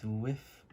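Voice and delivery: riff said as wiff, w for r; says w for r. Real, not acted. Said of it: "I can't pronounce my R's".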